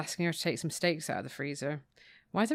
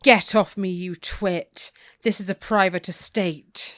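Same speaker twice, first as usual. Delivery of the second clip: mock snooty outburst; 6 dB louder, slower than usual. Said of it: "she says".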